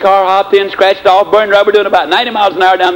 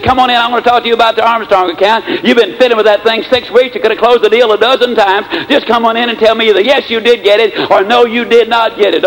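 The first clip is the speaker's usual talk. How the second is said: higher-pitched insistent summons, not truly shouted; mock loud voice; 4 semitones higher than usual. Boss summons sales manager about the account, mock loud and demanding. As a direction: imitate a boss calling out impatiently. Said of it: "In a very loud voice".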